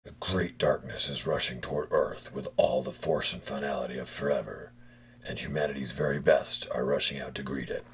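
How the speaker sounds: solemn narrator voice; closing narration. A narrator's reading. Narrator sending off humanity's best, solemnly. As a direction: announce it like an epilogue.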